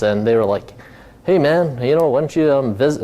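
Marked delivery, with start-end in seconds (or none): 1.2-3.0 badly faked Australian accent, slightly lifted; terrible Australian accent. Australian buddies pitching an idea to him, in a badly imitated Australian accent. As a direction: have a poor go at sounding Australian. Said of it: "that's a terrible accent".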